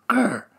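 small high growl; tiny mock growl. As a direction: growl like a little mouse. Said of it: "a bit more grr".

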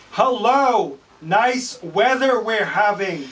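high, loud squawky parrot greeting. Acted. Parrot greets the pirate, loud and high. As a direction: play the chirpy parrot. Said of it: "says the parrot".

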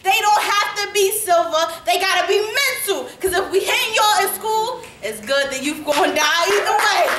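lightly voiced Klansman offering mock thanks; a hint of a gloating villain. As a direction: deliver it as a gleeful sales pitch of hate. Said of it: "A note from the K K K".

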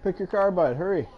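cheering on a race; excited urging. Real, not acted. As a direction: hurry them on, keyed up.

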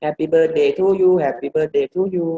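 "happy birthday to you" in Thai-accented even syllables; Thai-style happy bird-day; too-Thai accent. Shown as a demonstration. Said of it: "มันสำเนียงไทยเกินไป".

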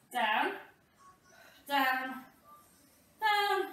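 counting through a hard ab workout; doing sit-ups. Real, not acted. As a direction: push the words out mid-crunch. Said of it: "Oh, my abs are on fire already".

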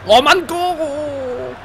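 slow, high, loud lament; drawn-out groan. Real, not acted. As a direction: stretch it out in dismay. Dismay at opponent's goal.

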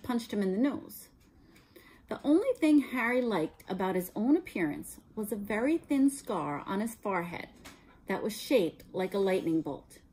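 clear, even storytelling read; story narration. A narrator's reading. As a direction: read the chapter to the class. Teacher reads novel aloud.

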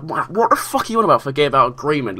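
sudden high-pitched outraged disbelief; outraged retort. Retold or imitated. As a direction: fire it back in shocked indignation, pitch jumping up.

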